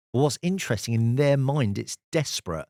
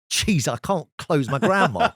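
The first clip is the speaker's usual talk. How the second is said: laughing disbelief; 5 semitones higher, 4 dB louder than usual. Real, not acted. Laughing at his own failure.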